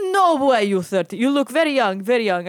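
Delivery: loud mimicked disbelief, accented; incredulous old man. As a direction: play the old driver marvelling loudly. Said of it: "he's looking at me".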